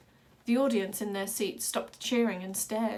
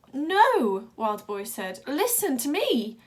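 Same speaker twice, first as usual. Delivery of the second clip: pleading; 5 semitones higher, 7 dB louder, slower than usual. A narrator's reading. Wild Boy pleading loudly.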